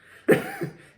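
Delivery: sudden high-pitched giggle; embarrassed burst of laughter. Real, not acted. Laughs about cringy video.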